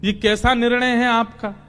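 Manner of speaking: exasperated complaint. Acted. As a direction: act out mild exasperation, piling up the contradictory orders. Arjun उलझकर शिकायत करता है. (उलझन भरी शिकायत, थोड़े ऊँचे सुर में)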